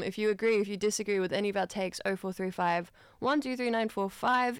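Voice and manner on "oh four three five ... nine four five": rushed. Real, not acted. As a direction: tear through the phone number. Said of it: "why did I tear through that".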